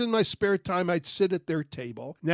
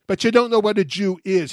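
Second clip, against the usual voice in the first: shouting after him; 5 dB louder than usual. Retold or imitated. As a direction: shout it to make him stop walking. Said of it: "I finally shouted after him".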